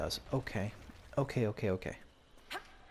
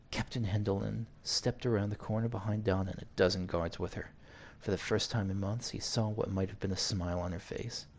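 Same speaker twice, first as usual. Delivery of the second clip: measured read-aloud narration; story narration. A narrator's reading. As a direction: narrate it evenly like an audiobook. Reads game story aloud.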